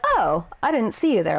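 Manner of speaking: casually rude retort; burn. Acted. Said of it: "I wanted the burn".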